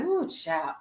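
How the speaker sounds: put-on high woo child, drawn out; a light woo child; my catchphrase. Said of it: "you be like".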